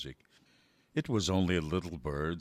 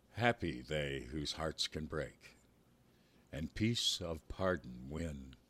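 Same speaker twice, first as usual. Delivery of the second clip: slow, solemn poem recital; poem reading. A narrator's reading. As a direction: read each line slowly and gravely. Reads poem aloud.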